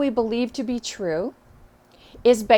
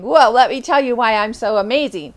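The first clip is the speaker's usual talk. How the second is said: confident; 5 dB louder than usual. Shown as a demonstration. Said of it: "going back and saying".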